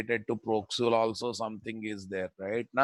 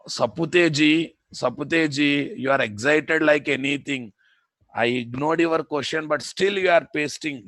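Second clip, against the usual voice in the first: exasperated chiding; 3 semitones higher, 4 dB louder than usual. Real, not acted. Teacher chiding an eager student.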